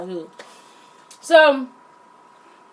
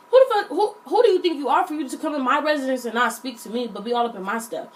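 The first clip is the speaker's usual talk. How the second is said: indignant scolding; faster than usual. Acted. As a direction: tell off a rude guest, rushing the words. Imagined scolding of silent house guest.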